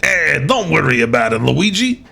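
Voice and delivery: breezy Mario reassuring his brother. Pretend. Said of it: "a Mario voice".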